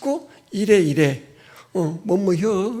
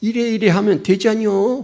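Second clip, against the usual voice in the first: put-on homey, folksy old-lady dialect. Imitating a middle schooler who talks like a grandmother, folksy grandma dialect. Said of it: "그 말투가 정말 아주 구수한 노인정 할머니 말투예요".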